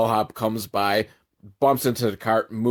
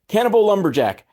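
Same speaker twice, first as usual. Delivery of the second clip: higher, punchy excited pitch; 9 semitones higher, 3 dB louder than usual. Real, not acted. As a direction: sell it like a movie title. Idea repeated as pitch.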